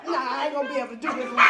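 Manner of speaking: fast, loud, laughing give-up; laughing giving up. Retold or imitated. Speaker to himself, quitting, fast and laughing. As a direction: rush out a laughing surrender. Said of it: "I said".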